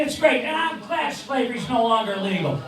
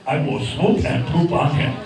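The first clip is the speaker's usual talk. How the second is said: puppet bird voice; 6 semitones lower than usual. Acted.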